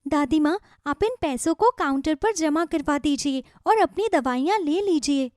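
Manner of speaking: put-on a young girl reassuring granny; gentle child voice; little girl. She speaks as child.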